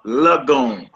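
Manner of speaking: lagoon said slowly as luh-GOON; short la sound. Shown as a demonstration. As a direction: demonstrate lagoon with a slurred 'luh'. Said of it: "It's like a la sound".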